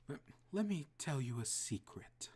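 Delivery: menacing whisper. Acted. Susie whispering a secret.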